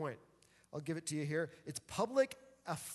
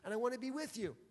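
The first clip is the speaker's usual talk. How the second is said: frustrated bride; 4 semitones higher than usual. Retold or imitated. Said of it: "And she's frustrated".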